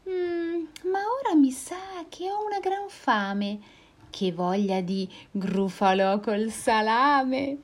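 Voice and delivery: high mouse voice, savoring; smug mouse. Acted. Mouse threatening to eat the Gruffalo, smug. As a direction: tease the monster, high.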